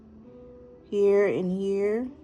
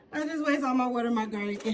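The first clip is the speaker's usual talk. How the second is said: higher, fast, laughing it off; 5 semitones higher, faster than usual. Real, not acted. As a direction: laugh through the words. Repeats with a laugh.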